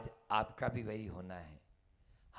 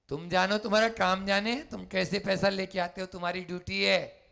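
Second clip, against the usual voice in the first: brusque; 6 semitones higher, 4 dB louder, faster than usual. Acted. Mother brusquely refuses the son.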